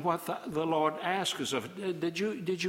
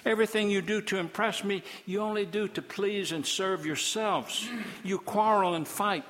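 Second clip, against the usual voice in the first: higher, exasperated scolding as God; a touch of exasperated preaching; 4 semitones higher than usual. Acted. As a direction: let God's patience run out.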